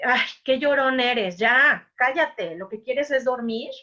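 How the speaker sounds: put-on a fed-up parent hushing a tired kid; regaño al niño. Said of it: "Si yo le digo a este niño". (padre harto que calla al niño que llora, más fuerte)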